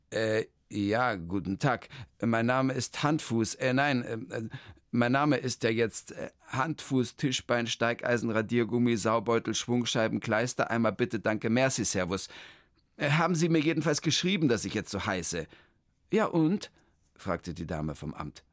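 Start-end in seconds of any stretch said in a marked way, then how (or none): 0.1-15.5 a hint of a flustered man; lightly voiced, hesitant man; Hermann. Hermann stumbles over his long new name, lightly voiced. 16.1-16.7 high, chirpy clerk voice; the clerk rattles off her greeting, high; official lady. Acted. The town-hall clerk greets Hermann, high and chirpy.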